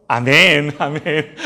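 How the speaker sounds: laughing. Real, not acted. Father laughing with his son during the sermon, amused. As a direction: let a chuckle spill out.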